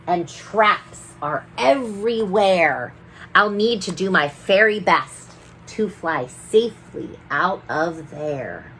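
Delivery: lively sing-song read-aloud; rhyming storybook reading. A narrator's reading. Storyteller reading a rhyming book to children. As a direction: read the rhymes to the children with bounce.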